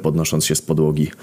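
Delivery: ordinary delivery, nothing marked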